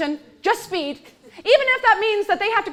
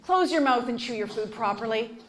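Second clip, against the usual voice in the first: mild polite request; 5 semitones lower, 6 dB quieter than usual. Retold or imitated. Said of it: "I'll say".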